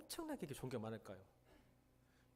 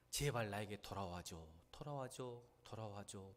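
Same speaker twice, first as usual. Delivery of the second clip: begging plea; 4 semitones lower, 5 dB quieter than usual. Acted. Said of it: "마치 실현당한 여인이 한 남자에게, 한 여자에게 매달리는 것처럼".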